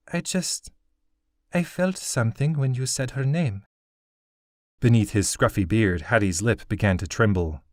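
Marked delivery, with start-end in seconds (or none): 0.1-3.7 put-on much higher, a hesitant young girl; a girl groping for a feeling; high girl's voice. Girl tells Hattie what she felt, high and hesitant.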